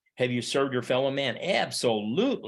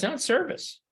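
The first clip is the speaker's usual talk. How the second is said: indignant rejection. Real, not acted. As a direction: stretch it out, incredulous. Professor rejects forced volunteering.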